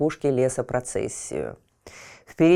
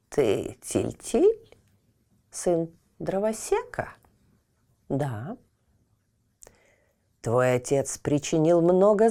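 ancient tree, aggrieved, rising; talking tree; 6 semitones higher than usual. Acted. Old oak accuses boy.

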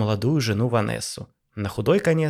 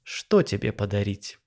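peaceable; 3 semitones lower, slower than usual. Acted. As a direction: say it pointedly peaceably. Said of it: "сказал подчёркнуто миролюбиво".

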